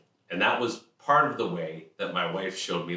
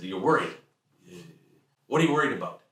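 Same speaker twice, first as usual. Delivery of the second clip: incredulous father; 4 dB louder, faster than usual. Retold or imitated. Father voiced, questioning.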